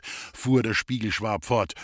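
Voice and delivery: ordinary delivery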